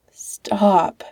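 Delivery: breathless whispered plea; weak whisper. A narrator's reading. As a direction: barely push the word out. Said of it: "Patrick said weakly".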